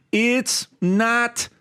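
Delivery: put-on high, drawn-out kid's complaint; whining child. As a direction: imitate a child protesting, high-pitched. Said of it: "My kids talk like that".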